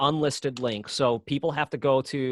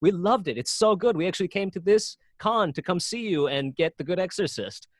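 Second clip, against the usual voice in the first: gushing fans; 5 semitones higher than usual. Retold or imitated. Fans gush about the movie.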